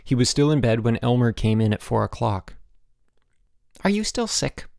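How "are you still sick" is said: high, concerned question; solicitous. A narrator's reading. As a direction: ask with caring concern. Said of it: "his roommate asked solicitously".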